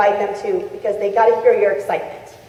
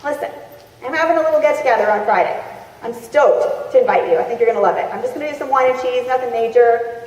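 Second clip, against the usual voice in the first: excited invite. Shown as a demonstration. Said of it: "be super excited and be like".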